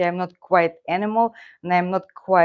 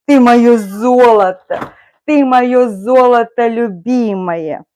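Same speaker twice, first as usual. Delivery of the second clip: cooing to the cat; 5 semitones higher, 8 dB louder than usual. Real, not acted. Owner cooing lovingly at her cat, high baby talk. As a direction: coo at the cat, high and loud. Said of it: "and that's how we are talking".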